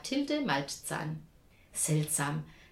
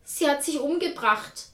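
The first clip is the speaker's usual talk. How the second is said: panicked wail; 7 semitones higher, 5 dB louder than usual. A narrator's reading. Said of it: "jammerte Jessica".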